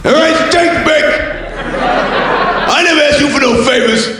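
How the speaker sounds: Stallone impression yelling. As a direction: yell it like an angry Rocky. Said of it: "Stallone impression".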